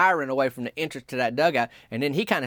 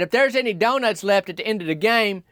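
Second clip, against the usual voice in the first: making an offer; 5 semitones higher than usual. Retold or imitated. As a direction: dangle the donut deal. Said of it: "He said".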